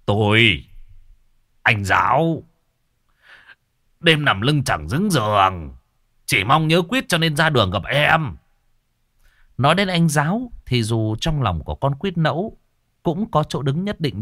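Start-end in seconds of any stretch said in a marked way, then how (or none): 0.1-8.4 lightly voiced drunk, slurred; drunk slurring. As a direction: slur it like a mildly drunk man. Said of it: "Vẫn là cái giọng lè nhè vang lên".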